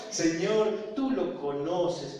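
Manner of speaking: imitating a slow, earnest prayer. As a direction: stretch it out as a prayer. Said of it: "empieza a hacer una oración despacito".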